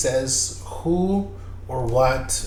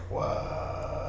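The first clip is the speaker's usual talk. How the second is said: breathy, hushed disbelief; very soft, acted astonishment; stunned whisper; 11 dB quieter than usual. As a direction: whisper it as a mock mind-blown reaction. Retold stunned reaction to the revelation.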